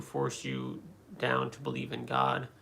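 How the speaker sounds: ordinary delivery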